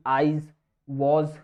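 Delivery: आईज, वॉज drawn out slowly with a buzzing "z" at the end; demo of z sound. Shown as a demonstration. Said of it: "इसमें जी की sound आएगी". ("आईज", "वॉज" धीमे, गूंजते "ज़" के साथ)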